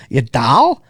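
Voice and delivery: light mock Boston accent, dropped r in car; hint of a Boston accent. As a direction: toss in some Boston. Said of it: "then he gets Boston in there".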